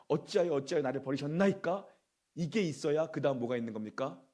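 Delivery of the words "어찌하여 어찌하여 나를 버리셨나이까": louder, higher pleading question; acted crying out. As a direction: call out as Jesus forsaken on the cross. Preacher acts Jesus' cry on cross. (예수님의 부르짖음처럼 높여 외치기)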